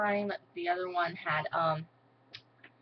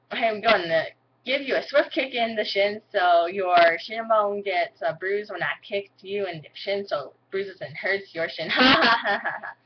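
country accent; 4 dB louder than usual. Shown as a demonstration. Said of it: "here goes stupid country accent".

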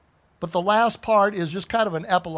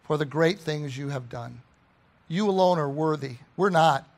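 measured prayer with pauses between phrases; earnest prayer; 2 semitones lower than usual. Real, not acted. Preacher leading congregation in thanks to God, earnest prayer. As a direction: address God reverently, mostly calm, pressing key words.

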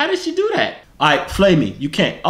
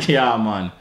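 low mock Jamaican accent; 4 semitones lower than usual. Shown as a demonstration. Previewing the next video, mock Jamaican accent. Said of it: "I need to do a Jamaican one".

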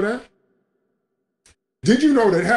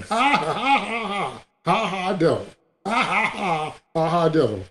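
mocking laughter at the devil; 2 semitones higher than usual. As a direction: laugh the devil off, half mock. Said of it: "And I just started laughing".

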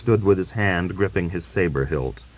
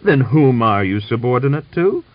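demanding; 5 semitones higher, 6 dB louder than usual. A narrator's reading. General demands.

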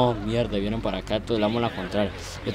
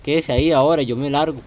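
panicked yelling; 5 dB louder than usual. Real, not acted. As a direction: yell at the players to get out of the way. Fleeing the tsunami in the game. (gritos de pánico pidiendo que se muevan)

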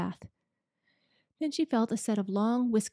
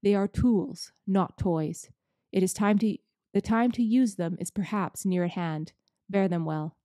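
solemn Father Christmas; 3 dB louder than usual. Acted.

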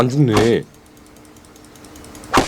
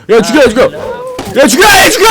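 high, loud battle yell; shouting; 12 semitones higher, 5 dB louder, faster than usual. Real, not acted. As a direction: bark the order to attack. Yelling orders during fight.

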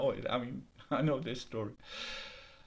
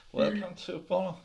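nervous laughing greeting. Acted. Nervous deer greets the tigers.

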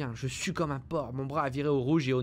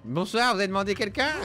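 loud, higher mock greeting; mocking shout; 4 semitones higher, 5 dB louder than usual. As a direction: taunt the zombie with a shout.

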